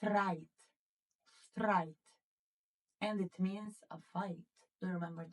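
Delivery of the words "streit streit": Streit with sht and ai, twice; German Streit. Shown as a demonstration. Teacher pronouncing the board word for the class, clear German. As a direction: model Streit as shtrait. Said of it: "how do we pronounce this word".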